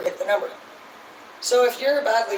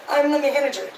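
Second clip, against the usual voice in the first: proud announcement; 5 semitones higher, 3 dB louder than usual. Retold or imitated. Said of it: "you post it and you're like".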